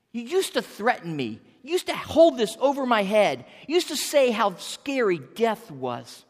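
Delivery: emphatic taunt with punched key words; defiant, mocking address to an old foe. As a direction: throw old threats back at the enemy. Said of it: "he taunts with these words".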